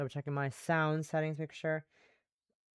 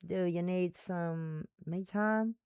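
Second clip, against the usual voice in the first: Southern woman; 5 dB quieter, slower than usual. Acted. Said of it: "one female Western Southern voice".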